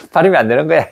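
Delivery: laughing. Real, not acted.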